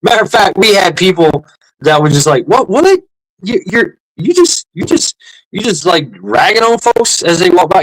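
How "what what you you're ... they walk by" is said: imitating high-pitched, stammering disbelief; baffled passer-by. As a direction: play a stunned onlooker tripping over the question. Acting out astonished passers-by.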